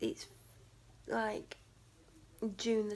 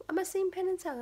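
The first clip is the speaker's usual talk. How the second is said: amazed question; 9 semitones higher, 4 dB louder, faster than usual. Retold or imitated. Dad amazed at the Penn and Teller gift.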